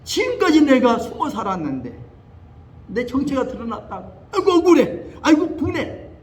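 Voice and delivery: lightly imitated weeping lament; a hint of the spirit's sobbing complaint; half-hearted wail of resentment; mock wailing. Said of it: "울면서".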